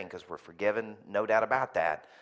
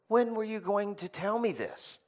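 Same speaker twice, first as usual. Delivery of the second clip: angry demand; 12 semitones higher than usual. Retold or imitated. Angry phone call with contractor.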